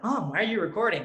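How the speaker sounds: whiny little-brother impression. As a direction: imitate a puzzled little brother. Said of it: "he's like".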